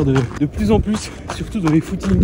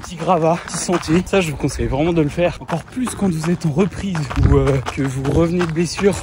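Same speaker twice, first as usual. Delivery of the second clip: slightly winded talk on the move; talking mid-jog on a trail; while running. Real, not acted. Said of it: "je suis en train de courir".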